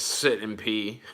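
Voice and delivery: low, slow, giggling read-out; reading with a laugh. Retold or imitated. Reading a viewer's comment while laughing. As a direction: read it out cracking up. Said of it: "This one says".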